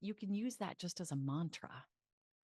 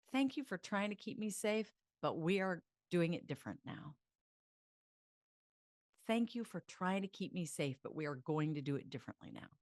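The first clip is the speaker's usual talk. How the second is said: empowered thanks. Shown as a demonstration. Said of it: "I literally want you to go like this".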